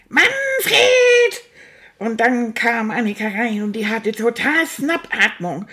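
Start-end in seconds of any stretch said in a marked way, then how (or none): 0.1-1.4 high shrieked name call; angry call. Retold or imitated. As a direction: yell the name from another room. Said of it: "dann hörte ich auch schon".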